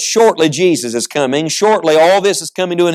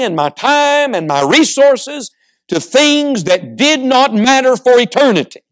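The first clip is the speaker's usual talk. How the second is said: forceful preaching, climbing higher in pitch; impassioned testimony; 4 semitones higher than usual. Real, not acted. Preacher testifying to the congregation, impassioned preaching. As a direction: testify with rising fervor.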